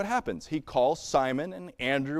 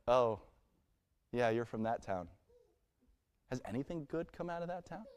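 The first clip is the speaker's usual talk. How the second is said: snide remark; 4 semitones lower, 8 dB quieter than usual. Retold or imitated. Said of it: "you can hear it".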